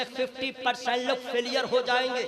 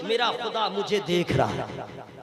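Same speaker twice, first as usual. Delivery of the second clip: lower, hushed and inward; devout whisper-like; 7 semitones lower than usual. Shown as a demonstration. Preacher modelling the believer's inner thought, hushed and devout. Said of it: "ये ईमान रखिए".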